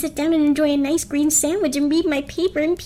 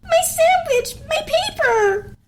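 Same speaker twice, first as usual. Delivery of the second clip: shocked outcry; slower than usual. Acted. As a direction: cry out over the ruined lunch. Ruined lunch outcry.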